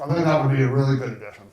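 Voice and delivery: talking while chewing; words through a mouthful of burger; mouth full. Real, not acted. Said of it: "sorry for talking with my mouth full".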